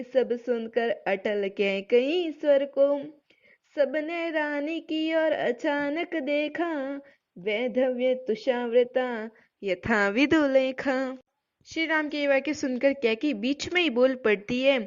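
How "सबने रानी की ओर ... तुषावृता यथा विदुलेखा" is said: slow, measured verse recital; poem recitation. Acted. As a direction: chant each line slowly like a poem. Teacher recites Saket verse. (धीमा काव्य पाठ)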